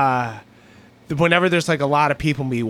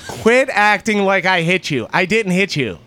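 insistent fake denial, a touch raised; mock loud protest; 4 semitones higher than usual. Embarrassing a girlfriend on a crowded street, mock loud protest. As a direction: protest your innocence for passers-by to hear. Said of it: "say that louder and louder".

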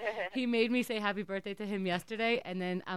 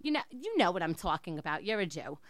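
put-on Jewish accent; 4 dB louder than usual. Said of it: "I'm gonna be in an accent".

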